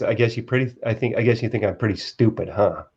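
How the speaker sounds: quietly sinking at the end; deflated self-put-down. Shown as a demonstration. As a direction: say it like you expect to be called stupid. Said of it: "And I said it just like this".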